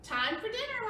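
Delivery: high, loud call to dinner. Acted. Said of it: "Mommy called".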